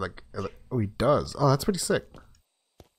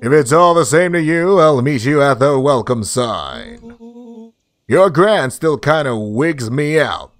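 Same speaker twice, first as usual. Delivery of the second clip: slow, lightly voiced cartoon friend; lightly hammed-up, drawling pal; game character; 4 dB louder than usual. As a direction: drag the words out as the character.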